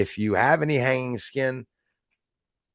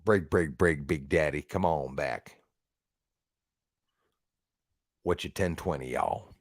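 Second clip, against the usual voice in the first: lower, softer CB radio trucker lingo; CB trucker talk; 10 semitones lower, 7 dB quieter than usual. Retold or imitated. Streamer recalling his old Midland radio, lower CB trucker voice. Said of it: "I used to modulate with my Midland".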